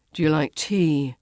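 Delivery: "Do you like tea?" as a statement, falling on "tea"; no rise on "tea", sounding like a grumpy statement; grumpy falling intonation. Shown as a demonstration. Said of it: "it sounds like a grumpy statement".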